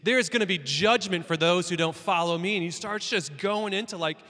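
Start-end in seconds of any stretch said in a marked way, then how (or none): 0.0-2.5 louder, stern prophetic condemnation; calling out. Retold or imitated. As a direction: pronounce judgment like a thundering prophet. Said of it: "he just starts calling people out".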